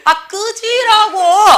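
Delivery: very high, loud, drawn-out dismissal; hammed-up sibling yell with laughter in it; mock angry yell. Quarrelling sibling tells the other off, mock yelling.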